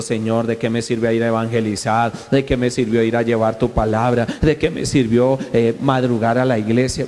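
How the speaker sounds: low, heavy, worn-down lament; a mild hint of a dejected believer asking what it was all for; imagined downcast complaint. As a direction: sound weighed down and discouraged. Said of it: "triste, agobiado".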